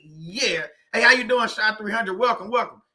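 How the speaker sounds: eager host welcome; excited greeting. Retold or imitated. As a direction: greet them like the live just started. Greeting viewers at live start.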